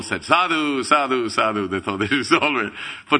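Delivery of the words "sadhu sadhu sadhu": approving cheer. Retold or imitated. Crowd approving loudly.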